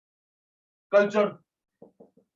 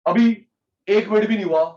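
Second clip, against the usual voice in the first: exasperated call; 6 semitones higher, 6 dB louder than usual. Real, not acted. Teacher scolds impatient class.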